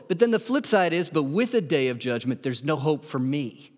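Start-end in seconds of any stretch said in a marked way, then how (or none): 1.1-3.7 subdued, sinking confession; low-key, humbled delivery; subdued admission. Real, not acted. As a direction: let it drop, as a personal admission. Flip side, turned on himself.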